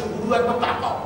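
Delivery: high, rising fan yell; imitating crowd shouting. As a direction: call out like a screaming fan. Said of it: "পেছনে চিৎকার হচ্ছে". (ভক্তদের চিৎকারের নকল)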